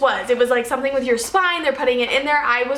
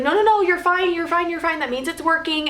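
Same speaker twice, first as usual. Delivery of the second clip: higher, hurried run of reassurance; reassuring doctor, imitated; 4 semitones higher than usual. Doctor to panicking patient in labour, imitated reassurance. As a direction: imitate someone talking a patient down.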